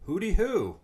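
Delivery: loud, high holiday holler; demonstrated yell. Shown as a demonstration. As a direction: yell it out like a celebration call. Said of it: "while twice yelling".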